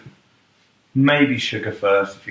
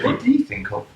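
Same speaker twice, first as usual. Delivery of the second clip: squeaky mock voice. Mock repeat of misread question.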